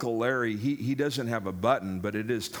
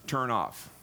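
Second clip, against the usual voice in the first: slow explanation. Shown as a demonstration. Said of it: "more literally means".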